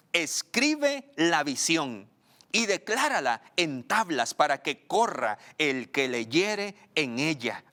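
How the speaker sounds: slow, emphatic scripture reading; lectura bíblica solemne. Acted. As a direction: proclaim the verse phrase by phrase, slowly. Reads scripture aloud. (lectura bíblica lenta y enfática)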